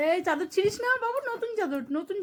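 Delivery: high-pitched plea to the pet not to tear the sheet; high pleading. Real, not acted. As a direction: beg it to leave the new sheet alone.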